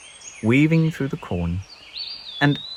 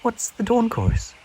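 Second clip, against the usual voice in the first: small bird voice; 12 semitones higher than usual. Acted. Peep voiced high.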